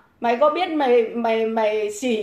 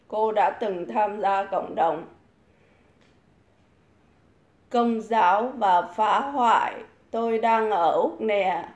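mock reading; 2 semitones lower, slower than usual. Reads a commenter's message aloud. (đọc bình luận chậm rãi, giọng chế giễu)

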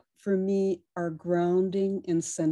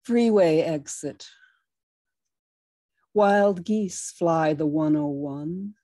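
reflective poem reading; poem reading that softens toward the end; poetry reading. Acted. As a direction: muse over the geese while reading. Reads geese poem aloud.

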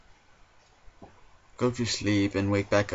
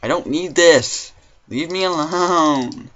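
higher, louder, slow drawn-out whine; 7 semitones higher, 10 dB louder, slower than usual. Real, not acted. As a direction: moan it out, fed up. Swarmed by zombies again.

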